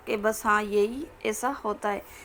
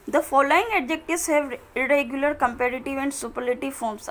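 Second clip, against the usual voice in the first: slow, careful reading of the English rule; slow textbook reading; slower than usual. Acted. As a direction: read each word out slowly for students. Reads the irregular forms heading. (धीमे-धीमे किताब से पढ़ना)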